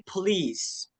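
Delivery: "please" as two beats, puh-LEES; PO read as PE. Shown as a demonstration. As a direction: say "please" like police, short puh first. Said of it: "tapi dibaca pe". ("please" dua suku kata, pe-lis)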